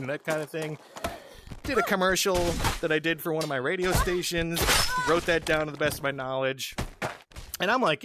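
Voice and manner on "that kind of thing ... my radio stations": usual speaking voice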